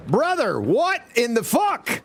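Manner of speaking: high, slow, shouted dad scolding; disappointed dad voice. Acted. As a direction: let him have it like a let-down father. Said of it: "crank on the disappointed dad voice".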